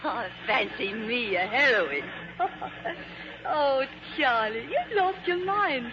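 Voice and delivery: laughing through the words; giggle, flattered. Acted.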